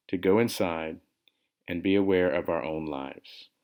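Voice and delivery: calm, measured meditation guide; guided meditation. Real, not acted. Meditation teacher leading listeners into awareness of breath, calm guidance. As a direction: guide listeners gently through the practice, phrase by phrase.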